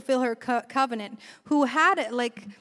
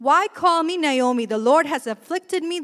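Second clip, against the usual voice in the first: raised, louder anguished complaint; an old widow's raised, bitter lament; 3 semitones higher, 6 dB louder than usual. Retold or imitated. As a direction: cry out against her lot. Naomi's bitter lament, voiced.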